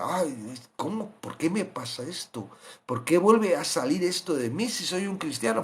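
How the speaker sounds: quiet, bewildered self-questioning; soft puzzled lament. Retold or imitated. Christian wondering why sin returns, quiet bewildered lament. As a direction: murmur it as a confused believer. Puzzled believer after sinning again.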